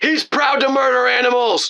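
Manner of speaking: put-on, very high-pitched yelling. Recounting the chaos, quoting a guy with a man bun: retelling a yell. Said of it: "Some guy with a man bun yelled".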